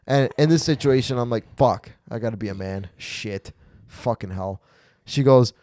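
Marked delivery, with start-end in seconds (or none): 1.6-4.6 low, hushed swearing to himself; reluctant inner voice. Retold or imitated. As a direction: curse under your breath, pitched down. Reluctant inner voice facing the mouse.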